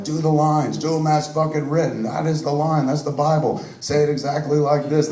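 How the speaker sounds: lightly mocks his own younger bossy self; mock stern director laying down the law. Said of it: "one of those really dictatorial directors".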